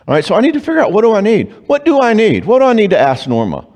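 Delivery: high, searching inner voice; inner self-questioning. Retold or imitated. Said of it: "start asking".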